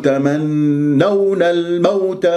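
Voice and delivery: "تمنون الموت" with long nasal and gliding aw; soft waw, no punch. Shown as a demonstration. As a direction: glide through the waw of "الموت" without stressing it. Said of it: "فأنت دير بالك تنبرها".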